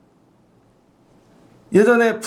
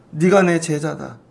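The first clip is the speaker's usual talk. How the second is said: solemn declaration; 3 semitones lower, slower than usual. Acted. 프란체스코가 제자에게 선언.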